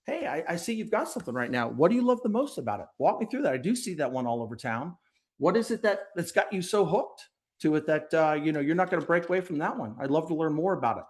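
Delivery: upbeat curious questions, quick at the end; curious friendly rep. Shown as a demonstration. Rep to business owner, a touch of eager curiosity. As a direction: show real interest in their system. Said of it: "And instead".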